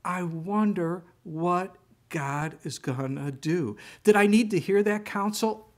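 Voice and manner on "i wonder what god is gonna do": slow gentle repeat. Shown as a demonstration. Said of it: "It was the simplest thing".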